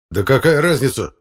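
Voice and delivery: irritated outburst, loud and high; exploding. Acted. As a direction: burst out in exasperation. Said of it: "взорвался Фёдор Игнатьевич". (раздражённая вспышка)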